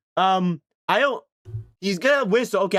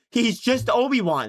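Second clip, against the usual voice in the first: Obi-Wan imitation; 5 semitones higher than usual. Shown as a demonstration. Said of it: "normal voice".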